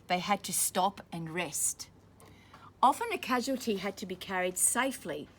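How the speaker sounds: clear, steady storybook reading; reading to children. A narrator's reading. Teacher reading a war story to children, steady storybook voice. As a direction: read it out for the class. Reading picture book aloud to class.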